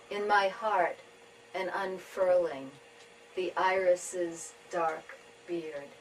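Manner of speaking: measured tanka reading with pauses between lines; poetry reading. Acted. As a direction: read each image slowly, letting it settle. Reads own tanka.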